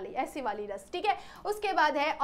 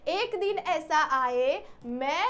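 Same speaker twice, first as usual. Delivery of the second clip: slowly recited verse; slow recitation; slower than usual. Acted. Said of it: "बड़े ही शांति से क्या बोल".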